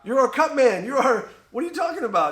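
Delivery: high, loud indignant quote; mock-furious at the cutman; high loud exasperated retelling; retold outburst. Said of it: "He goes".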